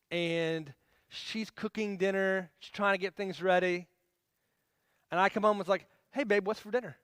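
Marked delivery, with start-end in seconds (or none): 6.1-7.0 lightly upbeat, higher-pitched greeting; nice tone. Retold or imitated. Husband coming home asks his wife about dinner, nice tone. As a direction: ask it nicely, a friendly husband. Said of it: "I said it in a nice tone of voice".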